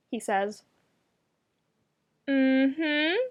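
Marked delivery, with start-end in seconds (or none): 2.3-3.2 judgmental. A narrator's reading. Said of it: "amount of judgment she fits into".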